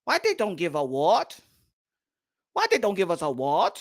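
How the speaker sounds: mock complaint. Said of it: "You don't see the Asian people saying".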